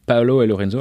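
names said with an attempted Italian accent; lightly Italian-accented French speaker. Real, not acted. Wine host naming the two Italian growers, attempted Italian accent. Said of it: "vous excuserez mon accent italien".

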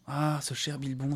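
slow drowsy murmur; voix ensommeillée. Acted. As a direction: say it half asleep, slowly. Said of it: "dit Frodon d'une voix ensommeillée". (voix lente et ensommeillée)

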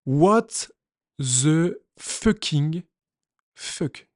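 slow, trailing off to a breathless whisper; drawn-out shocked curse; stunned disbelief. Real, not acted. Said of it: "stunned reaction to the news".

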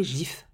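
"gif" with a soft French G, as "jif"; "gif" opening on a soft zh sound. Shown as a demonstration. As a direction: say "gif" starting like "je". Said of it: "c'est un G doux".

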